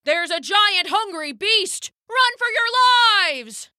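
high, frantic cries; frightened animals yelling to run; panicked animals. Acted. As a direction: scream the warning and flee. Animals flee in terror.

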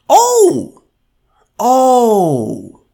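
high, loud mock-shocked oh; mock disbelief at the news; mock shocked gasp. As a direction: gasp like you've just been betrayed. Mock outrage at Pfizer.

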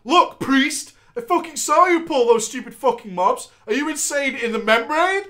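loud, high mock tank rant; voicing the tank. Tank yelling at the priest, mock rant. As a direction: chew out the priest, hammed up. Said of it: "The tank said".

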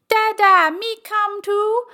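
put-on high-pitched little kid voice, drawn out; Junior. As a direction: plead like a toddler tagging along. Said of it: "the way that kid talks".

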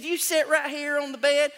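lightly voiced old lady. Daughter voiced in story.

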